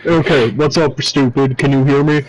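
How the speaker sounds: faint underwater mic sound. Real, not acted. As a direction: still slightly muffled, underwater audio. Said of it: "Still a little bit underwater".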